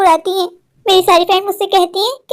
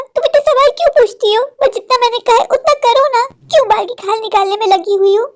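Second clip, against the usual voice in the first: higher-pitched irritated motherly scolding; annoyed scolding; 4 semitones higher than usual. Acted. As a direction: snap at a daughter's endless questions, pitch raised. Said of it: "माँ, तुम गुस्सा क्यों कर रही हो?". (चिढ़कर ऊँची आवाज़ में डाँटना)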